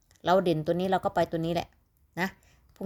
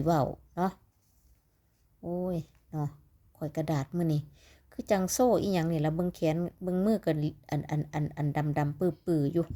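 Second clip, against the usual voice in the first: Isan dialect. Shown as a demonstration. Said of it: "ขอเว้าอีสานแหน่".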